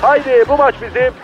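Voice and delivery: live play-by-play, rising excitement; football commentator. Acted. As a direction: call the match like a hyped commentator. (maç spikeri gibi heyecanlı anlatım)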